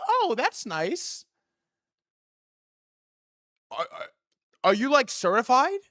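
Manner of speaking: mock bar girl asking innocently; high girly voice. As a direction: play her sugary and curious.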